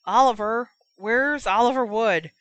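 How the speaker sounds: loud, high shout for Oliver; Harry shouting to find Oliver Wood; calling out. A narrator's reading. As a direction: call across the crowd. Harry calling for his captain.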